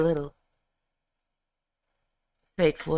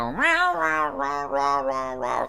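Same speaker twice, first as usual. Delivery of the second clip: imitating cat meow; 4 semitones lower, slower than usual. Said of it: "hear him go".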